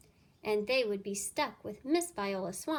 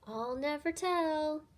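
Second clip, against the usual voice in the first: slow, higher, sly; smiling secret; 6 semitones higher, slower than usual. Acted. Miss Nelson to herself, sly smile. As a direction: keep the secret playfully. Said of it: "to herself with a smile".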